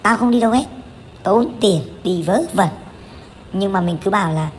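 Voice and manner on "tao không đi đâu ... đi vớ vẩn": imitating mom scolding. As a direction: play the stingy mother snapping back, half-joking. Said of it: "lần nào cũng chửi".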